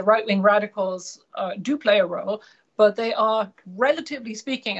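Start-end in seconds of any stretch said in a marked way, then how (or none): 3.7-4.8 relatively leaned on, quick; stress on relatively. Real, not acted. Expert stressing relatively on a radio interview. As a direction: lean on relatively as he says it. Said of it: "I emphasize the word relatively here".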